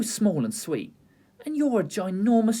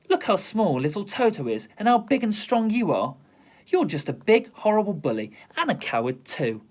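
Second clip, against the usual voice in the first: raised, indignant telling-off; girl lecturing a cowardly lion; scolding; 4 semitones higher than usual. Acted. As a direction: give the bully a piece of your mind.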